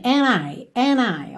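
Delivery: "and I" as "a-nai", no d; joined on N. Shown as a demonstration. Teacher shows the singer's linking, D dropped. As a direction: link "and I" straight from the n. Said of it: "ele juntou and I no N".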